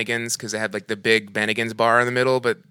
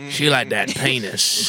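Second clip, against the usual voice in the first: goofy voice; slower than usual. Acted. Goofy voice, slow.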